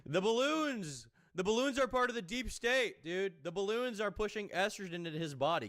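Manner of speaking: hammed-up outraged rant, high and drawn out; exaggerated conspiracy-rant voice mocking Wes. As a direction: parody a paranoid guru raging at balloons. Mocking Wes's rant about balloons.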